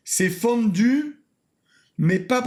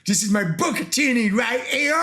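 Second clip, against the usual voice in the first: put-on Italian accent retry. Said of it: "J'ai perdu mon accent italien".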